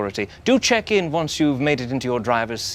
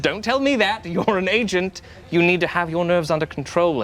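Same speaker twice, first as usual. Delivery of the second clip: stern high handler; 6 semitones higher than usual. Acted. Handler scolds nervous agent.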